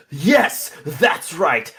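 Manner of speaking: gloating shout, loudest at the start; triumphant shouting. Acted. Oswald shouting at his beaten rival from atop the console, triumphant. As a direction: crow it at the beaten opponent. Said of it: "shouting at Ass".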